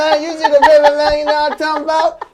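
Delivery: loud, high hammed-up hustler voice; pimp persona. Comedian hamming up his street pimp persona for the host, loud and high. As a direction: ham up a smooth street pimp.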